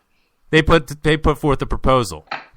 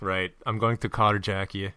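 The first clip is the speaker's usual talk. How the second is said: bad Gaffer impression; 4 semitones lower, 6 dB quieter than usual. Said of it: "worst Gaffer impersonation ever".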